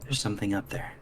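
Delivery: hushed, still-voiced warning; softly voiced stage whisper; mild whisper. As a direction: quietly alert a companion, lightly whispered. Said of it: "and whisper".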